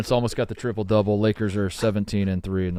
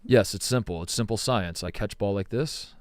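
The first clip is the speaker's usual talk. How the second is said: imitating calm Barry; 4 dB quieter than usual. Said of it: "the way he presented the information was so calm".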